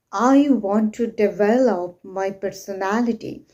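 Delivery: measured sentence leaning on "develop"; with word stress. Shown as a demonstration. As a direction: stress the middle syllable of "develop", taking your time. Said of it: "we can say".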